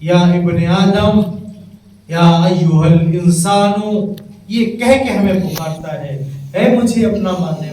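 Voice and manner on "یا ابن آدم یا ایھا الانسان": slow chanted recitation of یا ایھا الذین آمنو, drawn out; Quranic recitation. Acted. Preacher reciting God's call to believers, slow chant. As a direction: intone the verses slowly like a reciter.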